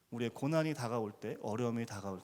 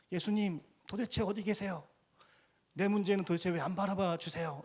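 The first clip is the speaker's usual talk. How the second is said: mock crying out; 6 semitones higher than usual. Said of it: "이렇게 외치고 있진 않으십니까?".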